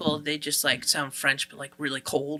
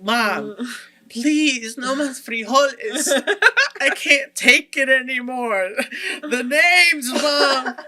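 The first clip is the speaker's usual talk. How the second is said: higher, louder pleading with a laughing sob; whiny plea; 6 semitones higher, 3 dB louder, slower than usual. Retold or imitated. Kid begging his mother to stop packing beans, whiny laughing plea. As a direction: beg mom like a fed-up kid, half laughing.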